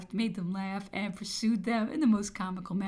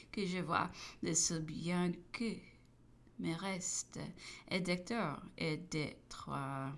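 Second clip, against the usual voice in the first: moved quiet recitation; 2 semitones lower, 9 dB quieter than usual. A narrator's reading. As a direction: read the lines softly, overcome. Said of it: "He was greatly affected".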